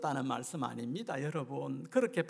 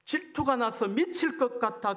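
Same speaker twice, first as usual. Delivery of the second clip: mild mock shout; 5 semitones higher than usual. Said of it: "그렇게 주님께서 소리를 쳤습니다".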